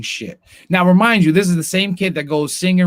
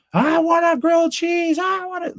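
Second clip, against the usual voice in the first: put-on much higher, shrieking child's tantrum; temper tantrum shout; 13 semitones higher than usual. Father acting out son's tantrum over lunch, high shriek. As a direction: scream it like a kid denied grilled cheese. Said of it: "whole temper tantrum".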